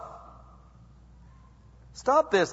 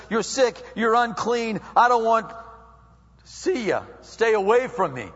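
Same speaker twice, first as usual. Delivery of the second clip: loud, raised mock rejection; rejecting condemnation; 4 semitones higher, 5 dB louder than usual. Condemnation speaking to the unclean, loud harsh rejection. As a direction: push the sick person away forcefully. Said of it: "Condemnation says".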